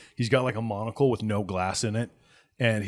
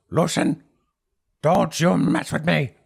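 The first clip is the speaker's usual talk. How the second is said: raised, loud threat; angry warning; 7 semitones higher, 8 dB louder than usual. Acted. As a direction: warn a rival off. Herb warns the gang boss.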